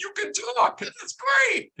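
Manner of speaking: very high mock-elated squeal; excited cheer. Imitating wife cheering while he lies in pain, high excited squeal. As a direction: cheer in a hammed-up, sky-high voice. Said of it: "and all she's saying is".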